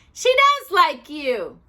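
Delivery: slow, loud insistence; emphatic. A narrator's reading. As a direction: press the point happily. Judy insists triumphantly.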